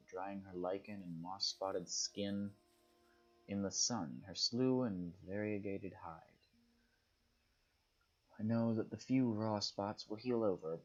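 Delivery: measured literary read-aloud, phrase by phrase. Acted. Player reading lines on the earth as a leopard, measured literary read-aloud. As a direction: read the nature prose out, lingering on some phrases. Reads a nature passage aloud.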